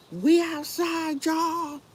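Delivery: loud, high call to the viewers. Real, not acted. Vlogger greeting viewers from the backyard, loud high call. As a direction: belt it out like you're announcing yourself.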